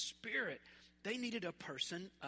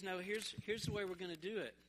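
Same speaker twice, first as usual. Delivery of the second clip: God's voice; 3 semitones lower, 5 dB quieter than usual. Retold or imitated. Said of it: "He goes".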